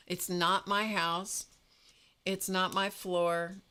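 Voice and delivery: slow, deliberate retold self-talk; self-reassurance. Talking herself down about the glitter, slow self-reassurance. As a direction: say it like a mild calming mantra. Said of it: "telling myself".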